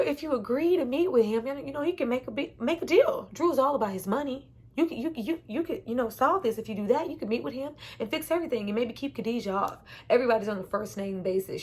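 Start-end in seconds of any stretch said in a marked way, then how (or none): 0.0-9.8 imitating T. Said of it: "She says".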